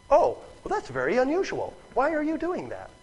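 high, wondering reaction; curious. Acted. Samaritan woman puzzled by a stranger's request, curious. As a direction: voice lifting in innocent curiosity. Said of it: "she's not curious".

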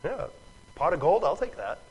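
lightly sarcastic agreement; humoring the ridiculous. Acted. Listener answering a ridiculous offer, lightly sarcastic. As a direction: play along in mock belief. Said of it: "when somebody says something ridiculous".

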